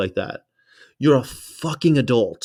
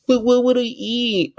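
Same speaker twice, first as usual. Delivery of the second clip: very high whiny question; mock whine; 12 semitones higher than usual. Mocking people who ask what they'd eat, high whine. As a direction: mimic a helpless complainer. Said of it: "I'm so sick of people like".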